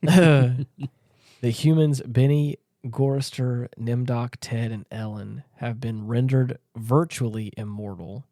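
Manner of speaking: measured read-out of a plot summary; reading aloud. Acted.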